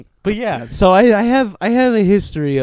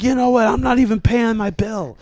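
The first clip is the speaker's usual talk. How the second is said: mock angry; 7 semitones higher than usual. Heckler storms off angry.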